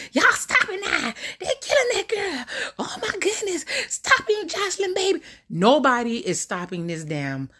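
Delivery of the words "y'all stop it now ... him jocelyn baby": put-on high, slurred drunk uncle yelling; old drunk uncle. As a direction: play the old drunk uncle begging them to stop. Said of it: "He sound like somebody old drunk uncle".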